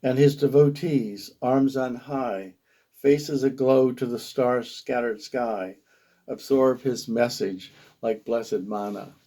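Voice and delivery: measured poetic storytelling; poem reading. Acted. Poet describes devotees before the guru, measured poetry reading. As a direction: recite it line by line with deliberate phrasing.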